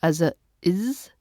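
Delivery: "is" said as a clear iz sound; final s as iz. Shown as a demonstration. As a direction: say the ending iz, a short vowel then a buzzing z. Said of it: "the three different ways that we can pronounce".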